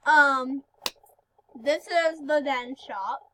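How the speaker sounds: lisping around a palate expander; talking with expander. Real, not acted. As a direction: speak with a new expander in your mouth. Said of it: "I'm sorry if I talk weird".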